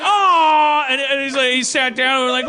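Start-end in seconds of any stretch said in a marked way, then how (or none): 0.0-0.8 high, loud drawn-out aw; sympathetic aw. Retold or imitated. Friends pitying the big boxer, high exaggerated aw. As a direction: coo in mock pity.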